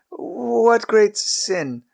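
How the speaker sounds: high, very slow bewildered question; drawn out in disbelief. Acted. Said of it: "Abraham stammered".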